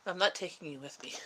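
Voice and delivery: playful pet-talk voice; a fond, laughing word to the pet; talking to the cat. Real, not acted. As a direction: tease the cat as you leave.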